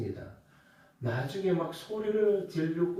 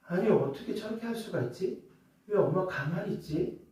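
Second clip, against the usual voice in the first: indignant inner voice; 5 semitones higher than usual. Retold or imitated. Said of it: "제가 마음속으로 화가 나는 게".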